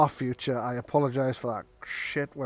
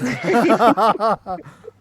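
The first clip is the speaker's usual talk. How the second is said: big laugh at a joke; loud burst of laughter; 5 semitones higher, 10 dB louder than usual. Real, not acted. Laughing at the suggestion.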